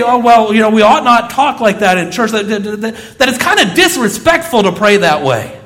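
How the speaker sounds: a hint of a pious critic tut-tutting; mock prim objection. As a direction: play the scandalised churchgoer lightly. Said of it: "And people say".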